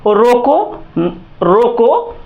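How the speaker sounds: "रोको" set apart, followed by silence; pause after रोको. Shown as a demonstration. Teacher tells students to stay silent, pausing after each "रोको". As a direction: say "रोको" and stop short for a beat. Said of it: "थोड़ा सा silent रहेंगे".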